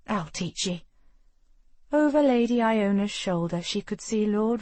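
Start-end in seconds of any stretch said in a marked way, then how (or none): 0.1-0.8 Scottish lass. Acted. Iona voiced in Scots.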